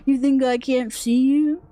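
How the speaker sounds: mock-tough taunt at the enemy. Real, not acted. Spotting the monster sneaking up, a cocky taunt.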